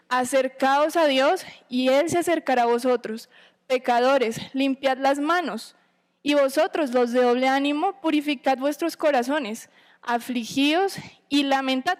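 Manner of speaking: unhurried scripture reading to the congregation. Acted. Reads scripture aloud.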